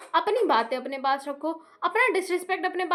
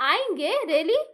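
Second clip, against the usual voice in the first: lightly imitating a dismissive retort; rude mocking reply; slower than usual. Imitating her brother brushing off the family, a touch of rudeness. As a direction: toss it off with attitude, mild mockery. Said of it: "इतना घटिया tone में बोलता है".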